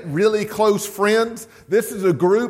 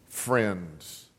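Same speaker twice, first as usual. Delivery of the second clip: hushed; 10 semitones lower, 11 dB quieter than usual. Acted. Quoted verse, last word dropped.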